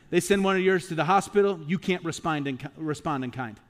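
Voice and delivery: preacher's sharp contrast, punching "hospital"; emphatic preacher. Real, not acted. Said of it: "that's not the Bible way".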